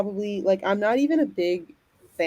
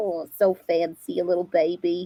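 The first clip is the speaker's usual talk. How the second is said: soft cooing cartoon mom voice. Cooing over babies in suits: sounding like Linda from Bob's Burgers. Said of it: "I think I sounded like a, um, what's her name from, uh, Bob's Burgers?".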